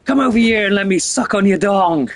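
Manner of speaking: high-pitched, hammed-up ghost hag; Turbo Granny. Voices foul-mouthed Turbo Granny.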